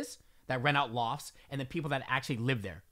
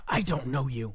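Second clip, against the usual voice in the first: snotty dismissal; 5 semitones lower than usual. Retold or imitated. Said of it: "Let me repeat that".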